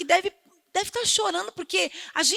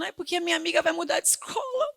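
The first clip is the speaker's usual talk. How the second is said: whiny crying daughter; faster than usual. Retold or imitated. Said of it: "esse dia tava chorando".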